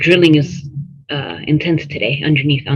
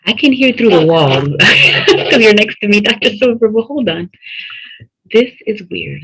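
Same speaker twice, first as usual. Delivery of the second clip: echoing tunnel; 5 semitones higher than usual. Real, not acted. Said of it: "It sounds like you're talking through a tunnel".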